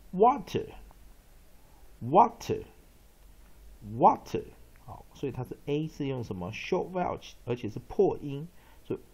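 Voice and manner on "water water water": water stretched very slowly, a bit higher and louder; slow loud drill. Shown as a demonstration. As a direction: model water slowly and clearly. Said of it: "teacher drills the word".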